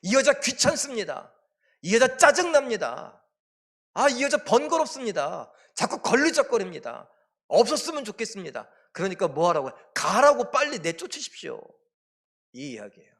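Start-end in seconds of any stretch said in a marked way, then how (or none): 0.0-8.7 high, loud exasperated complaint; acted irritation. Disciples complain to Jesus about the woman, irritated. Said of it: "번거롭게 생각되고 짜증을 내면서". 9.9-11.6 high, loud exasperated demand; acted irritation. Disciples urge Jesus to send her away, irritated. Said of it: "번거롭게 생각되고 짜증을 내면서".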